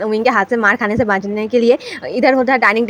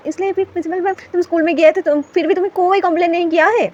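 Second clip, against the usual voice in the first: excited accusation; 6 semitones higher than usual. Acted. Character exposes uncle's phone trick.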